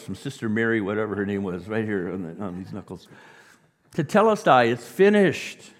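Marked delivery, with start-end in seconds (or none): 3.9-5.7 high, ringing shout, drawn out at the end; slow, full-force declaration; loud proclamation. Acted. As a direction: proclaim it to the whole room. Proclaims the cry triumphantly.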